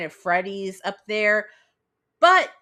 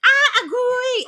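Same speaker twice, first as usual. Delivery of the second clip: high, loud drawn-out mock yelp; dog's voice; 9 dB louder, much slower than usual. Podcaster voicing her dog reacting to her raised voice, high mock yelp. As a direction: squeal it as a startled little dog. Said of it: "but he's like".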